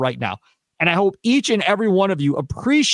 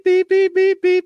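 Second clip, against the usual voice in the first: high, louder imitated beeping; phone beeps; 14 semitones higher, 4 dB louder, slower than usual. Describing his phone blowing up with texts, high beeps. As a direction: mimic a phone flooding with alerts.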